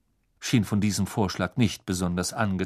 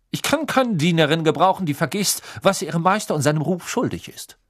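cold; 7 semitones higher, 5 dB louder, faster than usual. A narrator's reading.

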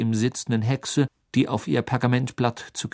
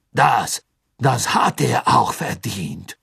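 stockend, laut, langsam; nervös beipflichten; Anflug von Panik; 5 dB louder, slower than usual. Acted. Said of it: "mit einem deutlichen Anflug von Panik". (Karkaroff stimmt panisch zu)

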